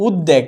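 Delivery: উদ্বেগ as "uddeg", b lost; wrong pronunciation. Shown as a demonstration. Teacher repeating the mistake for students, doubled-d mispronunciation. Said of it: "ভুল হবে".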